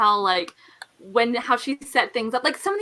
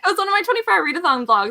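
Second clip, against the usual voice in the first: laughing; 5 semitones higher, 4 dB louder, much faster than usual. Real, not acted. Laughing while explaining her vlog.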